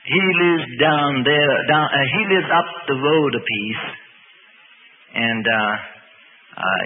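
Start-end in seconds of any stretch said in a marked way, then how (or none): 0.1-3.8 slow, lightly voiced hill country talk; a hint of hill country dialect; hill country speech. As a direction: say it slowly, like hill country folk. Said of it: "when you're down in the hill country".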